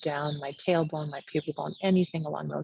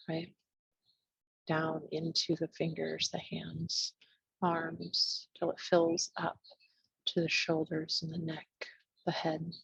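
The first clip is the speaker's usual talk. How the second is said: hushed, spacious meditation guidance; guided meditation. Real, not acted. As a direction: ease them inward, pausing between short phrases. Leads a meditation.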